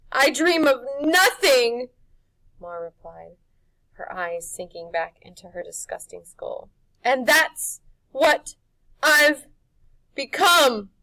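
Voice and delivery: slow, high, loud crone lament; dying witch. Acted. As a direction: fade out, bitter. Witch melting away.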